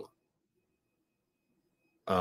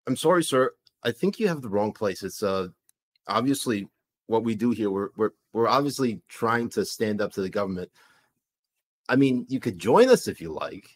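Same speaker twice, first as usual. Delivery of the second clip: put-on light comic Canadian accent; puzzled host with a Canadian accent. Host asks who hijacked the feed, light Canadian accent. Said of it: "Canadian accent".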